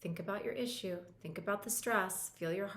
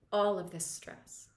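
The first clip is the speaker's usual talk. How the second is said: slow demo phrase; 4 dB louder, slower than usual. Shown as a demonstration. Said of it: "And just say".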